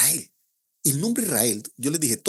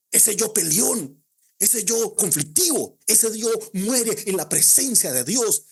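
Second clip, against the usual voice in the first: slow emphasis; 7 semitones higher, 3 dB louder, slower than usual. Real, not acted. Emphatic sermon climax.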